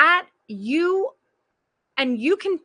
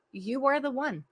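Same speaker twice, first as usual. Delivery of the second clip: tender reassurance; 6 dB quieter than usual. Acted. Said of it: "I'm gonna hold your little face".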